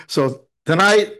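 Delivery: slow restart of "so tonight" through a laugh. Real, not acted. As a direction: chuckle and start over slowly. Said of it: "No, I'm only kidding".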